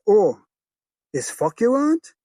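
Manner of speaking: high, loud furious retort; shouting mother. Acted. Mother yelling back at her jealous husband, furious shout. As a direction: snap back at him at full volume.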